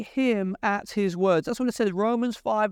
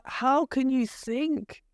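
higher, pleading voice of a wounded brother; heartbroken Joseph; 3 semitones higher than usual. Retold or imitated. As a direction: plead as a hurt, loving brother. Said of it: "He's like".

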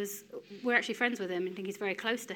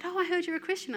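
colleague's line; 9 semitones higher, faster than usual. Retold or imitated. Colleague quoted, high pitch.

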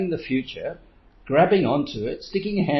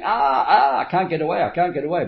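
mock monkey panic; 4 semitones higher, 3 dB louder than usual. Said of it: "the monkey's screaming and shouting".

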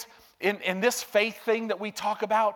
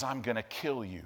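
low, hushed menacing whisper-like threat; Satan's threat; 10 semitones lower, 10 dB quieter than usual. Retold or imitated. Preacher voicing Satan threatening a believer in bed, low and hushed. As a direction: play Satan creeping up in the dark. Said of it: "Satan comes and goes".

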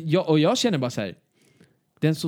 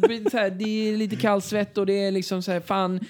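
stressed inner voice; 8 semitones higher than usual. Retold or imitated. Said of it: "liksom bara".

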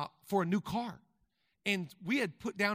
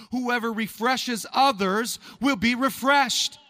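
loud, high, driving sermon voice; full-force preaching; 7 semitones higher, 12 dB louder than usual. Acted. Pastor rallying the congregation on giving, loud full-force preaching. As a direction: preach it hard to the back row.

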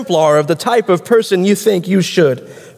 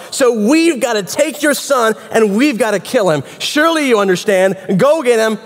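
crowd confronting a father, higher-pitched and insistent; demanding mob; 6 semitones higher than usual. Acted. Townspeople demanding the son from Joash, insistent and accusing. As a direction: press the accusation, pitched up, stretching key words.

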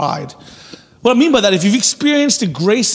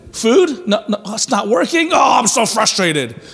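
hammed-up frustrated child; 2 semitones higher than usual. Preacher mimics a frustrated child at the stove, mock whine. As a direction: play the kid whining over a failed pot of water, half laughing. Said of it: "and it says".

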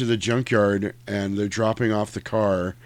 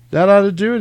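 loud imitated line; 10 semitones higher, 8 dB louder, faster than usual. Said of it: "he goes".

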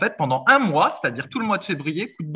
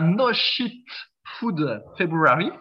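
slow, deliberate English accent; much slower than usual. Shown as a demonstration. Podcaster pitches the challenge to co-host, English accent. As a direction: show off an English accent, word by word. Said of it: "avec mon super accent anglais".

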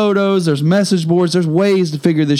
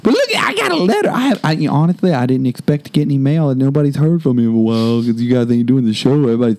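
Richard Queso voice; 4 semitones lower than usual. Acted. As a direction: greet the fans as a hammy old character. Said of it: "the S S Queso".

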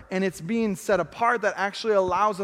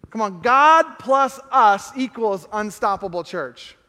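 slow and louder, driving every word; rally the room with it, full voice; rousing proclamation; 4 dB louder, slower than usual. Shown as a demonstration. Pastor rallies the church with the equation, slow and loud. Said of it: "add to the equation".

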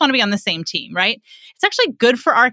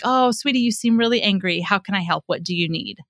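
soothing parent. Acted. Parent calming an angry kid, soothing. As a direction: soothe an upset child, settling as you go. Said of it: "I'm gonna soothe them".

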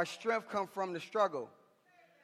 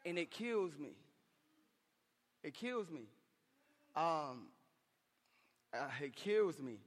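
soft, hurting admission; hushed, with pauses between repeats; pained; 5 dB quieter than usual. Real, not acted. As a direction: let it drop quiet and heavy. Preacher moved by vision of son.

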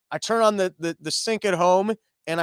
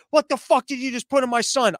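panicked mom; 5 semitones higher than usual. Retold or imitated. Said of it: "she goes into panic mode".

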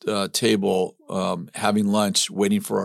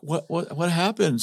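higher, stammered wifely question; puzzled wife; 8 semitones higher than usual. Retold or imitated. Wife asking her tearful husband what happened, puzzled. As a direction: lightly imitate a bewildered wife. Voices wife alarmed by his tears.

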